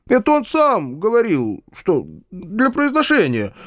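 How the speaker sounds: slow, high-pitched excuse; high, imploring justification; pleading insistence. A narrator's reading. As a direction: insist plaintively, drawing it out. Uncle keeps pleading his excuse.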